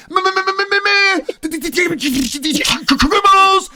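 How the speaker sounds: high-pitched hammed-up stammer; excited stutter. Friend fresh out of jail, stuttering with excitement. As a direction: imitate him stuck on each first sound, frantic. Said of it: "kinda stutters and he gets excited".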